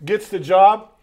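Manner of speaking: high, loud laughing. Real, not acted. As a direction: laugh through the story. Laughing retelling of the brown-noser.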